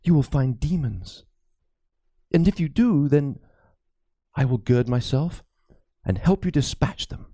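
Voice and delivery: lightly voiced anxious old priest; a worried cleric confiding a ghost story; frightened priest. Priest confides his fears to Crispin, lightly voiced and uneasy.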